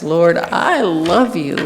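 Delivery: slow, earnest answer; sincere. Acted. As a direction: say it slowly from the heart. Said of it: "answers every question sincerely and eagerly".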